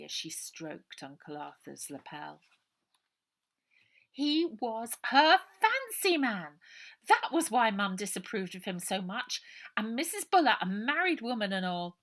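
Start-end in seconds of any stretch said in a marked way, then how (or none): 4.1-12.0 put-on high, loud girl's voice, apologetic and urgent; a worried girl pouring out an apology; anxious young girl. A narrator's reading. Ida whispering aside.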